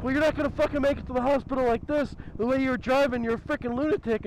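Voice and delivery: imitating the trooper scolding her about her driving; bitching cop. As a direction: rattle off a lecture like an annoyed cop. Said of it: "he starts bitching at her".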